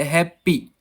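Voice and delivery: "हैप्पी" as two beats, hap and pee; "हैप्पी" broken after the first syllable; split into syllables. Shown as a demonstration. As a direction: let each syllable of "हैप्पी" stand apart. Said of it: "जो आपको beats सुनाई दे रही है".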